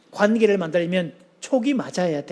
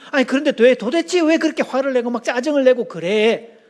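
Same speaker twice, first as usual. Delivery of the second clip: raised, higher exasperated demand; mock husband losing patience; 4 semitones higher than usual. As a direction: push back at her, fed up. Husband confronts irritated wife.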